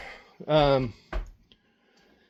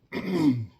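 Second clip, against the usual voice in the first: coughing on dust; 2 semitones higher than usual. Real, not acted. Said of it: "sorry, the dust is getting".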